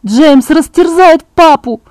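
put-on a girl begging not to leave her father; desperate shout. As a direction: yell it, slowing on the last words. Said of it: "закричала я".

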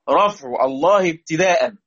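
slow chanted recitation of رفع الله ابتداء; recited verse line. Shown as a demonstration. Teacher reciting the poem line to students, slow and measured. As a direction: intone the verse slowly, drawing out الله. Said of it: "بيقول لي: طب".

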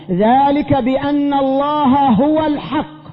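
drawn-out, measured recitation of the verse; slow reverent recitation; slow Quran recitation. Shown as a demonstration. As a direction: recite the verse slowly and solemnly. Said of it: "قال في كتابه".

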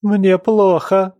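high, loud, slow wail of a fainting mother; mother crying out to stop the family quarrel. A narrator's reading. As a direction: moan it as if about to collapse. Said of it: "закричала Норберта".

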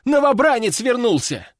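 high-pitched excited outburst; squealing alarm. A narrator's reading. Duty soldier bursts into headquarters with news, squealing alarm. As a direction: blurt it out, voice shooting up. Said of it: "заверещал паренёк".

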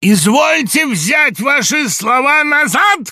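high, loud, slow demanding shout. A narrator's reading. Samoylenko demanding a retraction, high slow shout. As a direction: demand it outright. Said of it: "крикнул Самойленко".

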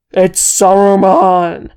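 very loud, slow, drawn-out roar. A narrator's reading. Wizard realising who sends the storm, roaring. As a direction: roar the name as a warning. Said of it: "he roared".

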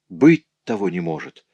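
high-pitched burst of disbelief; astonished exclamation. A narrator's reading. Rudolph hears startling news from his neighbour, astonished. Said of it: "воскликнул поражённый Рудольф".

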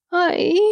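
high, voiced "ai" wail; narrated high-pitched bawl; wailing cry. A narrator's reading. Wife bursting into tears like a child, wailing. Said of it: "заревела Хенни".

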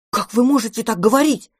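house-spirit indignantly defends his friend from the cat. Acted. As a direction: protest hotly for your friend. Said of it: "возмутился мышевраг".

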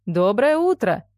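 slow, drawn-out jovial greeting; cheerful. A narrator's reading. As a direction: boom it out cheerily, stretching the words. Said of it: "жизнерадостно пробасил отец". (жизнерадостно, нараспев)

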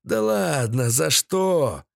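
high-voiced old villain scoffing; jeering captive. A narrator's reading. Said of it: "заржал Седой".

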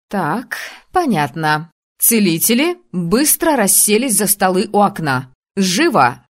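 strict commanding teacher voice; stern teacher. Acted. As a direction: bark the order at the class. Teacher orders students to sit.

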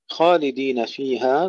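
slow خالدين with a thick, full خ; heavy kha. Shown as a demonstration. Teacher modelling the heavy خ of خالدين. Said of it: "نفخم الخاء جيدًا".

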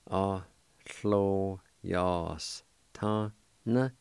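"a, lo, yas, ta, na" split into clear syllables. Shown as a demonstration. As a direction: tap out each syllable of "a, lo, yas, ta, na". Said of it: "and it's pronounced like this".

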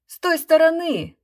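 loud shout from the crowd; shouting voices. A narrator's reading. Crowd shouting at the magician, loud. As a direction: call it out loud at the stage. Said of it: "закричали голоса".

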